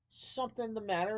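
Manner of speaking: high, suspicious question; acted questioning character. A narrator's reading. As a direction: ask it high, as a challenge. Villain questions the nervous trickster.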